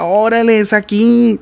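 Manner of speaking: high-pitched retold eureka moment; excited discovery. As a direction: exclaim it as if just finding the note. Retells discovering the right note.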